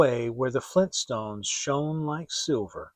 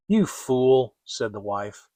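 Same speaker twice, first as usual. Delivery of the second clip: loud, scornful stepmother; 4 dB louder than usual. Acted. Stepmother scolds Hansel on the road, scornful and loud. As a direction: sneer at the boy's foolishness.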